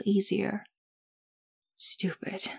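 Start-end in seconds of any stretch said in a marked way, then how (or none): 1.8-2.5 muttered under the breath; muttering. Acted. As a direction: mutter it to yourself. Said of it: "she heard herself mutter".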